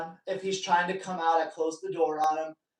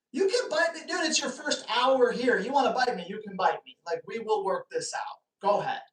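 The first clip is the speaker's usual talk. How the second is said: playful dare; 3 semitones higher than usual. Retold or imitated. Retold challenge to biting dog.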